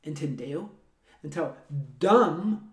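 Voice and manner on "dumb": "dumb" slow, ending on a plain m; silent B. Shown as a demonstration. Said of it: "é pronunciado assim, como se fosse D U M".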